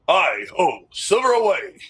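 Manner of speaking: a hint of a burly cowboy; lightly voiced burly hero. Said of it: "like a burly voice".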